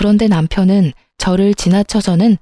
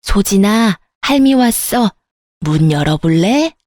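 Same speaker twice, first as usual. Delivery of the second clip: sweet grandma voice. A narrator's reading. Grandmother coaxing her crying granddaughter to open the door. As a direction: gently coax the child to open up. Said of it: "사근사근한 목소리로".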